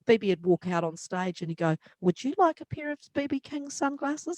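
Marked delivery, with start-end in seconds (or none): 2.0-4.4 lightly voiced B B. B B offering sunglasses on stage.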